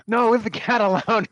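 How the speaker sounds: high, loud goofy yell breaking into a laugh; Jim Carrey klutz. Pretend. Player acting out a clumsy dog walker, high loud goofy yell. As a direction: ham it up like a klutzy comedian, laughing mid-line. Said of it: "kind of do my best kind of Jim Carrey".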